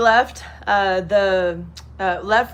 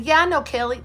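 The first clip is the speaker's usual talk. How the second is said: mild, higher cheerful florist; florist's voice; 7 semitones higher, 3 dB louder than usual. Retold or imitated. Florist recognizing a name, lightly higher cheerful voice. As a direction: answer brightly, pitched up. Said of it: "She said".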